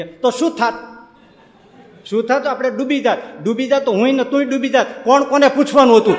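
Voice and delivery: a hint of the old uncle, laughing it off; casual, cheeky retort rising to a laugh; village uncle shrugging. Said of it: "કાકા ઊભા થઈને કે".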